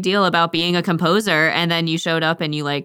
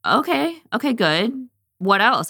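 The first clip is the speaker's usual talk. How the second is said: eager prompting; 7 semitones higher, slower than usual. Retold or imitated. Roxanne eager for more.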